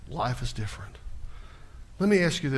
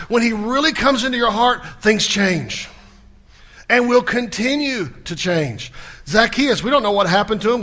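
loud, driving preacher's voice, pitched up; fiery preaching; 6 semitones higher, 7 dB louder than usual. Acted. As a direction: preach it with building fire from the pulpit. Preaching at full force.

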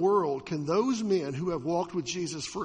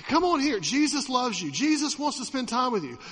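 put-on higher, louder, inviting call to children; welcoming call; 6 semitones higher, 4 dB louder than usual. Disciples welcoming children, calling them over eagerly. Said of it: "the disciples should go".

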